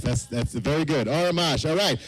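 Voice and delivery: usual speaking voice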